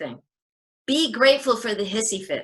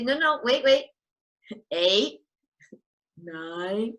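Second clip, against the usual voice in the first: laughing countdown; slower than usual. Shown as a demonstration. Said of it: "you can say".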